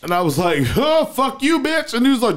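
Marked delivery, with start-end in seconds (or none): 0.7-1.9 retold insult. Retelling a street insult exchange.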